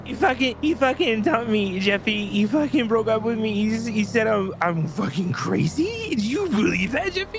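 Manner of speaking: put-on high, loud, wailing drunk woman; drunk ex-girlfriend impression. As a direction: shriek it like a drunk, heartbroken girlfriend. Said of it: "Oh, she said".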